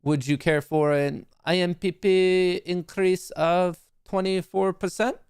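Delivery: serve it up like fine wine, in a French accent; mock French sommelier. Shown as a demonstration. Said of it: "a little bit of, of a French accent".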